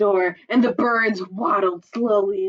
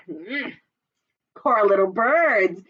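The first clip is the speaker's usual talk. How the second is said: smirking; slower than usual. Acted. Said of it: "he smirked".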